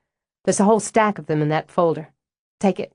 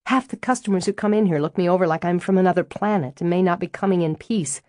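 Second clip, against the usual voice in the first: riled up; 2 semitones higher than usual. Acted. Stella, fed up with being called the Yankee, getting riled. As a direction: vent it, winding up until it bursts out. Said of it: "looks to me like you loosen up just fine when you get riled enough".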